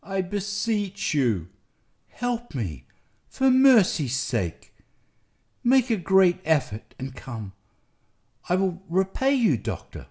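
beseech the doctor desperately; despairing plea. A narrator's reading. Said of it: "Nelly moaned in despair".

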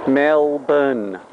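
Melbourne as MEL-bn, no R sounded; short Australian Melbourne, R dropped; Aussie Melbourne. Shown as a demonstration. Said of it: "Everybody say it with me".

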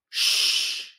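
long, breath-only "Shh"; sh sound demo. Shown as a demonstration. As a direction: model "Shh" as one held hiss. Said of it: "I want you to say".

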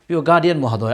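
normal talking voice

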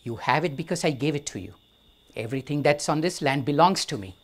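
a king putting a monk in his place; angry king. Acted. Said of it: "He's now angry".

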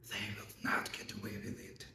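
hushed, menacing whisper of a promise. Acted. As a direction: drop right down, barely voiced. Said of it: "it whispers to me".

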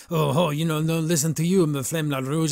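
imitating a blustering protester; mock arguing. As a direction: play a mock argument, words tumbling out. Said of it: "arguing with Carmen".

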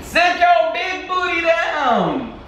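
very high, slow sing-song scold; high exasperated coax. Real, not acted. Owner scolding stubborn Muffin to sit, high and slow. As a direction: draw it out high to a stubborn puppy.

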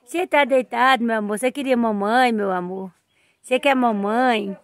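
soft coaxing talk to a calf. Real, not acted. Niece softly coaxing the big calf that still wants its mother. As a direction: coo gently at the calf. Talking to calves.

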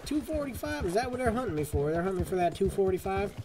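rising high in shocked disbelief; can't believe the bounty is that much. Real, not acted. Gamer stunned by his bounty, high and incredulous.

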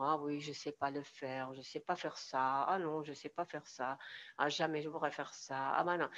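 mildly dejected, low-pitched self-talk; mock a touch of helpless self-pity; a bit depressed. Coach slumped, acting out defeated self-talk, mildly depressed. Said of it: "on se sent déjà un peu déprimé".

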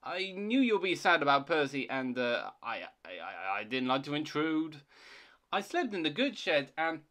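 faltering, stammered explanation; awkward excuse. Acted. Thomas explains his absence to Toby, sheepish. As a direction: hem and stumble through the excuse.

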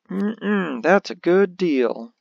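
slow, loud salesman close; car salesman voice. Acted. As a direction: lean in and close the sale. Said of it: "an attempt at, like, a car salesman voice".

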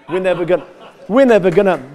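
attempted Southern accent, feeling for it; mock a Southern sceptic's accent; imitated Southern objection, haltingly begun. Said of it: "what would they say in South".

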